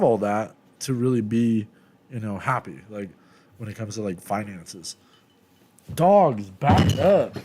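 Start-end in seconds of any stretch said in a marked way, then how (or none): 5.9-7.4 louder, telling the dogs to back off; firm call to dogs. Real, not acted. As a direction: snap it out at the dogs, short and firm. Commanding the dogs.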